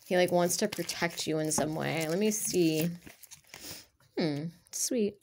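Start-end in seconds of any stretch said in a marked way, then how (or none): 4.2-5.2 a soft whispered hmm; whispered reaction. Real, not acted. Reader quietly reacting to the spread, whispering. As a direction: whisper it to yourself as you look at the cards.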